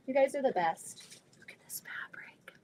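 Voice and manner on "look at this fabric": soft awed whisper. Real, not acted. Marvelling at fabric to viewers, whispered. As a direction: breathe it out over the fabric.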